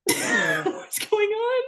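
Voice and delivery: high, drawn-out question through laughter; laughing disbelief. Retold or imitated. Woman retelling her shock at the accent, laughing disbelief. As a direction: laugh helplessly while asking in retold bewilderment.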